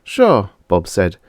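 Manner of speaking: put-on high, eager kids' chatter; children scheming; child voices. Siblings planning tomorrow, high eager voices.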